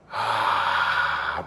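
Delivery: long slow low exhale; deep breath out. Shown as a demonstration. Teacher leads class in a deep exhale. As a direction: let a big breath out slowly. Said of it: "let's take a nice deep breath".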